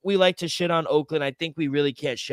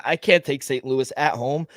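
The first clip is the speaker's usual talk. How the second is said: talking through the hiccups; hiccuping mid-sentence. Real, not acted. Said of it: "I got the hiccups".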